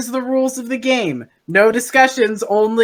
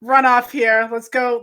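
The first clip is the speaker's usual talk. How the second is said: ordinary talk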